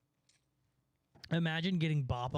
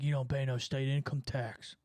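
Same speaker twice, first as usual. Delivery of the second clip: mocking Texan pitch; 2 semitones lower than usual. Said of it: "They're like".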